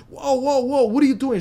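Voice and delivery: put-on old lady trying to pull him back in panic; imitating a panicked lady. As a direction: cry out in alarm while grabbing his sweater. Old lady holding attacker back.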